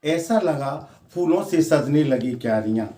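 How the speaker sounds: measured, lightly lilting verse delivery; poem recitation. Acted. Poet reciting verse about life slipping by, lightly declaimed. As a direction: recite with lines set apart by pauses.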